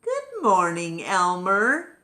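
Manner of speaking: waking elephant greeting his neighbor; cheery greeting. Acted. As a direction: call out a hearty hello. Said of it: "looked at his neighbor and said".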